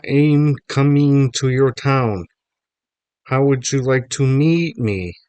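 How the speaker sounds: high, loud, slow mock-Mexican drawl; worst Mexican accent. A narrator's reading. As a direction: stretch every word in a hammed-up Mexican accent. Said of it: "in the worst Mexican accent ever".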